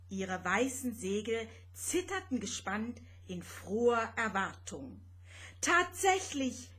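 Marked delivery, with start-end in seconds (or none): 5.6-6.7 higher, loud joyful cheer. Acted. Vanya spotting his homeland below, joyful cheer. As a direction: cheer it out in delight. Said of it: "jubelte Vanya".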